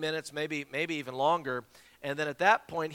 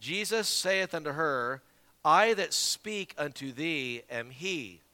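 slow, measured scripture reading; reading out loud; slower than usual. Retold or imitated. Plane passenger reading a verse to the preacher, slow read-aloud. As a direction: imitate someone reading a verse aloud, word by word. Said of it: "And then he reads out loud".

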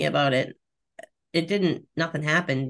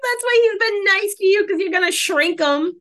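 amused high joke; 13 semitones higher, 5 dB louder than usual. Real, not acted. Joking theory about the cat.

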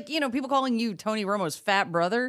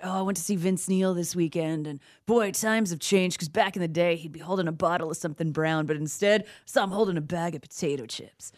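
sexy rock chick voice. Shown as a demonstration. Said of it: "it was like".

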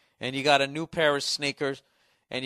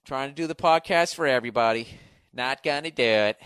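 hammed-up Bush impression; doing a Bush impression on the podcast, mock presidential; Dana Carvey's George Bush; 5 dB louder than usual. Shown as a demonstration. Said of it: "sound like fucking Dana Carvey's, uh, George Bush".

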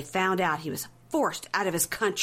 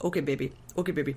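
mock placating; 4 semitones lower, faster than usual. Husband giving in to his ranting partner, mock placating. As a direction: parody a husband meekly giving in.

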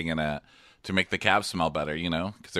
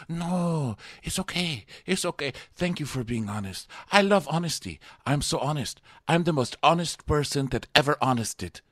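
high-pitched imitation of a soothing suitor; hammed-up earnest comforting; mock gushing reassurance; 6 semitones higher than usual. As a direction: gush reassurance in a raised, singsong voice. Acting out his gushing reassurance.

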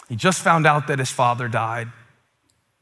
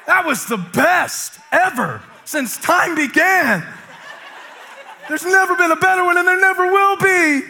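over-the-top praise; 14 semitones higher than usual. Shown as a demonstration. Pastor acting out the praise he wants to hear, gushing. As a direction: gush like it changed your life. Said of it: "don't even use an adjective".

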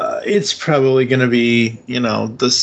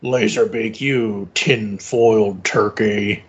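Optimus Prime voice; 3 semitones lower, slower than usual. Retold or imitated. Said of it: "where Peter Cullen says".

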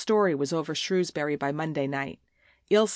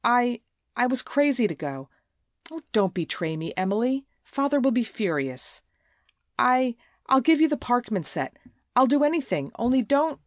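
rising, stammering plea that climbs louder; desperate pleading; 6 semitones higher, 4 dB louder than usual. A narrator's reading. Evelyn begs Emily not to betray her, stammering plea.

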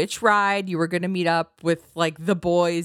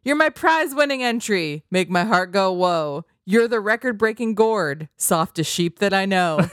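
upbeat lyric recital; 2 semitones higher, 3 dB louder than usual. Pretend. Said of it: "Here's the chorus".

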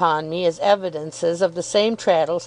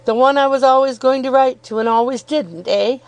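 lightly voiced good-natured schoolfriend, higher; cheerful Traddles, reminiscing; 6 semitones higher, 4 dB louder than usual. A narrator's reading. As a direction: reminisce with eager good humour.

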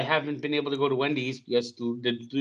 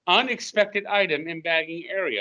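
self checkout prompts; 2 semitones higher than usual. Retold or imitated. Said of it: "you have the bag out there".

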